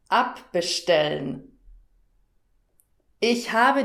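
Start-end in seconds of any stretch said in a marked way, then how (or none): 0.1-1.6 abbestellen with ab stressed; stress shown on ab. Shown as a demonstration. Teacher repeating the word for a learner, ab stressed. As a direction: hit the ab in abbestellen. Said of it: "Hörst du die Betonung?".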